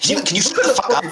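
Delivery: fed up with being interrupted; exasperated telling-off. Real, not acted. Interrupted host telling co-host to shut up, exasperated. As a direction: scold with rising exasperation.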